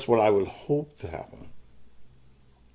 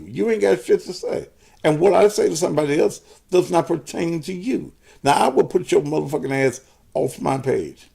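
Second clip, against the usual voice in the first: angry rant; 6 semitones higher than usual. Real, not acted. Cussing out Aunt Ballard live.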